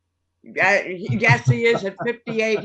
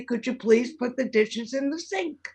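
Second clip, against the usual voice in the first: softer, gently polite asking; calm polite request; 5 dB quieter than usual. Shown as a demonstration. Listener modelling a calm request about the dishes, softly polite. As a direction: ask nicely after a deep breath. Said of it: "calm down, take a deep breath".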